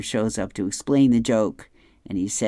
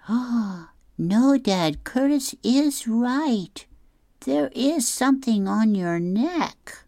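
high squeaky Barry; 12 semitones higher, slower than usual. Acted. Barry voiced, repeating Curtis.

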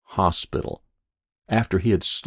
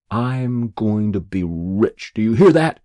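grit it out, then fling the challenge; a boy swearing revenge on the mockers while chopping wood; fierce vow; 2 semitones higher, 5 dB louder than usual. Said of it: "chopping fiercely at an obdurate log".

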